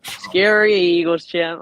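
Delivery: sarcastic fake fright at the rival fan; mock scared. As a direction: drag it out as if trembling before him. Mocking the Eagles champ.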